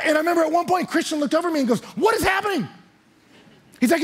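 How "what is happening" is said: astonished. Retold or imitated. Christian asking the pastor mid-rally, astonished. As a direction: ask it like you can't believe your eyes.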